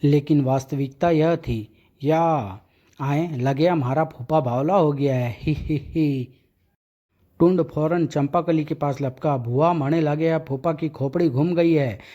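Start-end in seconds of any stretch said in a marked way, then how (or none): 5.4-6.3 cheeky giggle. Acted. Character giggles at mad uncle.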